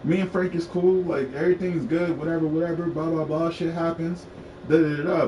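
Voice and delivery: mock-casual reassurance, pitched slightly up; saving face. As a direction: brush it all off as fine, rattling through the excuses. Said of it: "I always save face".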